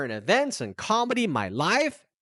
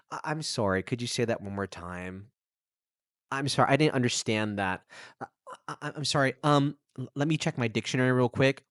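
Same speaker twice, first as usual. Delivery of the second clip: hesitant learner; 7 semitones lower, 3 dB quieter, faster than usual. Pretend. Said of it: "have the courage to say".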